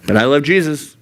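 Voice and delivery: normal talking voice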